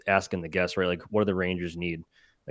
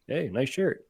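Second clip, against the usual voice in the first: lightly voiced stranger's offhand greeting, higher pitched; retold passing compliment, pitched up; casual stranger; 6 semitones higher, 4 dB quieter, slower than usual. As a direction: toss out a friendly compliment in a higher voice.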